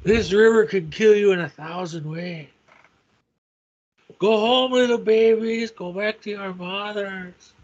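mock menacing villain, sneering at the babies; Latin Jon Voight. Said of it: "Jason needs to do a monologue as Latin John Voight".

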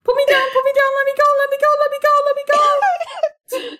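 high-pitched frantic pleading on one note; panicked cat. Acted. Cat character held up by bear.

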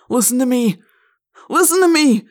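hoarse shouting. A narrator's reading. Staggering man cries out to passers-by, hoarsely shouting. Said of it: "shouting in a loud, hoarse voice".

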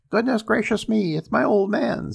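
high, loud flustered cry; panicked woman. Acted. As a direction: fluster in sudden alarm. Wife panics.

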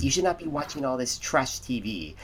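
put-on stuffy TV critic; mock-stuffy disapproval of trash TV. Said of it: "trying to get a good stuffy voice".

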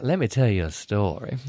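lightly acted, slow storybook telling; storytelling to child. Retelling Clarice's story for Jack Junior, slow storybook manner. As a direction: draw out the wicked witch's name. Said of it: "Clarice with Jack Junior is like".

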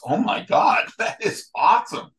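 high squealing delight with a laugh, mimicking his wife; wife's excitement. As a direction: imitate the wife thrilled and laughing. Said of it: "and she goes".

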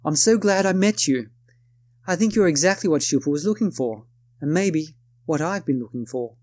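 put-on a self-conscious stab at a crisp British accent; amateur British accent imitation of a woman; attempted British accent. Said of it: "excuse my attempt at an accent".

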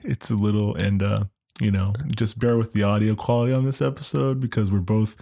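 stuffy nose from a cold; blocked nose, nasal voice; nasal congested voice. Real, not acted. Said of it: "like that nasally voice".

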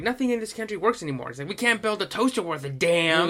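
lightly imitated stand-up rant; George Carlin. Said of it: "a bit from George Carlin".

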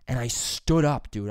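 usual speaking voice

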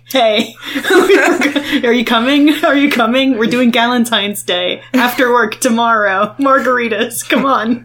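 high, loud, giggly pleading; excited coworker. Retold or imitated. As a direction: gush like an eager coworker. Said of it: "Text back".

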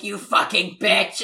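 loud, drawn-out mock cursing; hammed-up angry insult; Chucky. Acting Chucky suddenly cursing at her.

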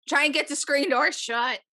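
mock a rambling drunk pal; half-hearted tipsy ramble; rambling buddy. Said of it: "Just rambling, random phrases".

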